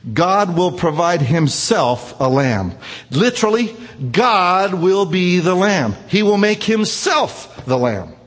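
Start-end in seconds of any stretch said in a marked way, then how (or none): 0.1-2.7 slow, weighty line with God leaned on; a solemn pronouncement, slowed right down; slow and deliberate. Shown as a demonstration. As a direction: hold each word, land God hard.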